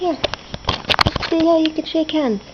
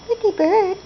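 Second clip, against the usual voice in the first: teaching a parrot; 5 semitones higher than usual. Shown as a demonstration. Modelling words for parrot.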